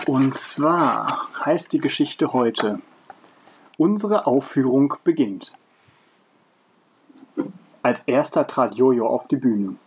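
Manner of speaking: measured read-aloud storytelling; story narration. A narrator's reading. Podcaster reading a story to co-host, narrating. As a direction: read the tale out in careful phrases.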